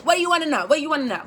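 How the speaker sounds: high, funny put-on voice for the tarot reader; sassy tarot reader. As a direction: play her up for laughs, pitched high. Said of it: "personify her as this because I think it's funny".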